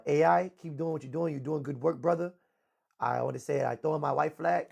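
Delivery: a friend mocking Pedro's soft surrender on a live; soft, smooth Pedro impression. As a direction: imitate him going soft and smooth. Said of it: "talking all soft and smooth".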